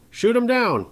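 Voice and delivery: shrill high furious shout. A narrator's reading. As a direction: scream the order across the square. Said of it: "The sheriff's shout tore across the square".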